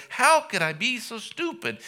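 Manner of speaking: high, strained wail of self-hatred; anguished damned soul. Pretend. Preacher voicing a lost soul's regret: high anguished wail. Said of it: "You will say".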